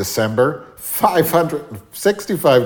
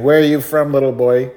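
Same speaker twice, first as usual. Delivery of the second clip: put-on cashier quizzing child; 3 semitones higher, 4 dB louder than usual. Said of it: "she says to the boy again".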